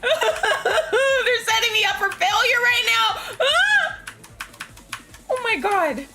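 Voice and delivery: slow, high, loud laugh-crying shout; real half-laughing half-crying wail; laughing panic. Real, not acted. Panicking at scary game scene.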